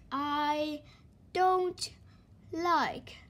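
whiny complaint rising on don't; complaining. Acted. Mister Slow complains to Mister Busy, grumbling. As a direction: moan about it. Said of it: "he complained".

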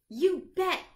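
high, loud eager burst; excited. A narrator's reading. Little Lucy answering her father, excited. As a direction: blurt it out thrilled to finally go. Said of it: "she says excitedly".

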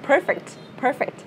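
"perfect" with English P and released kt; careful English "PER-fect"; correct pronunciation. Shown as a demonstration. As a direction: stress PER in "perfect", finish crisp. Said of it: "nào là bơ phét hả? No ha".

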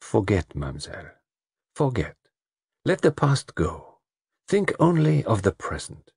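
put-on gently coaxing, with a touch of French accent; gentle. A narrator's reading. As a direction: soothe her into letting the past go. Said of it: "Poirot said gently".

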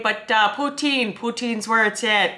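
lightly hammed-up Canadian accent. Vlogger mimics a Canadian version of the clip, Canadian accent. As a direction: play a casual Canadian, lilting up on the key words. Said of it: "Just like the Canadian version".

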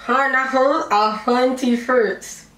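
slow, mangled through a guard; words shaped round a guard; mouth propped open. Real, not acted. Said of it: "I cannot hear a word".

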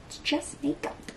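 self-reassuring whisper. Real, not acted. Reassuring herself.

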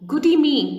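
put-on high, loud delighted old hag; excited cry. A narrator's reading. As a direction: cry out with greedy glee. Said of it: "cried the old hag".

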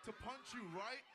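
megalomaniac rant. Acted. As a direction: gloat like a comic book villain. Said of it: "You sound like a super villain".

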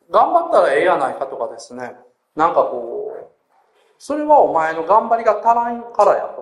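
easy, natural Osaka-ben delivery; Kansai dialect. Real, not acted. Lecturer switching to his native Kansai dialect for his audience. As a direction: drop the standard Japanese and talk like a native of Osaka. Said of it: "関西弁に切り替えます".

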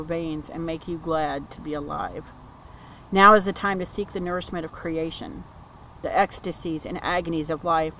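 card text read in a measured, deliberate reading voice; reading aloud. Acted. Reading the card's words aloud to her viewers, measured reading voice. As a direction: read it like an oracle's message to the listener.

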